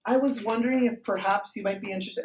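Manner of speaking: lightly voiced sales pitch; imitated salesperson. Friend pitching people on a call, lightly imitated salesperson. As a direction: slip into a mild sales-call tone. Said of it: "She sounded like a salesperson".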